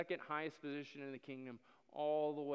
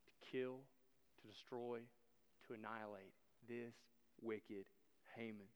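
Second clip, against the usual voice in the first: hushed accusation; 4 semitones lower, 10 dB quieter than usual. Acted. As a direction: let the name fall low. Queen accuses Haman.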